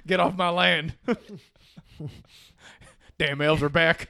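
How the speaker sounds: high, loud cackling hick yell; redneck farmer voice. Acted. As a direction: yell like a wild backwoods farmer. Acting angry redneck farmer.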